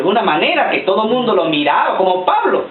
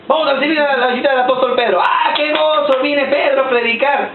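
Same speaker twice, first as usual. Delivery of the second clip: excited announcer; 5 semitones higher than usual. Retold or imitated. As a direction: announce the guest with fanfare. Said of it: "mock church announcement repeated".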